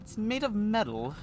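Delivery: high, slow echo of the phrase; mimicking the odd line. Copying the boy's voice back at him, high and slow. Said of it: "Why do you say it like that?".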